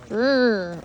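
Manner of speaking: lips buzzing from the cold; shivering brr. Real, not acted. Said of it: "it is cold".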